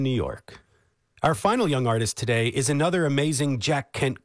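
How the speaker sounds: polished classical radio host introduction; radio announcer. Acted. Host introducing young cellist to radio audience, polished announcer delivery. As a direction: announce it with lively, swooping emphasis.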